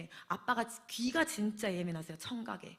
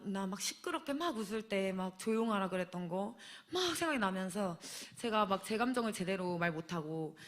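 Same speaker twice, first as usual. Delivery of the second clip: ordinary delivery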